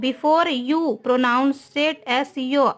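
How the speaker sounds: reads the sentence very slowly, word by word; slow dictation. Shown as a demonstration. Teacher dictating an example sentence to students, very slow. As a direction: spell it out slowly for the class. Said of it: "teacher dictates the rule slowly".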